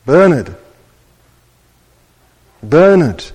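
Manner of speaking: loud call of a name across the dark. Acted. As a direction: call his name loudly, twice. Voice calling boy's name.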